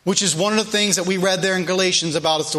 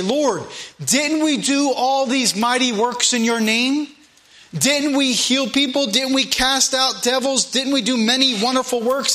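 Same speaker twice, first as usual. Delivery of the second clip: pleading followers; 5 semitones higher than usual. Retold or imitated. People pleading with Jesus, voiced.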